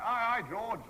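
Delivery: high, loud cheery hail back; shouted greeting. Retold or imitated. Actor answers the villagers: high loud hail. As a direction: call back to a passer-by. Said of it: "and I shout".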